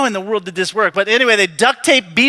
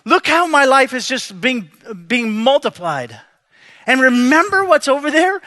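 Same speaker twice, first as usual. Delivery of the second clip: higher, agitated reluctance; anxious pleading; 4 semitones higher than usual. Retold or imitated. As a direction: argue your way out, worked up. Jacob pleads with God.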